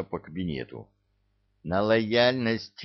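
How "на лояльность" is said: лояльность slowly drawn out for emphasis; insistent, stretched-out лояльность; stress on ЛОЯЛЬНОСТЬ. A narrator's reading. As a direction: spell out лояльность with slow emphasis. Boss repeats the misunderstood word.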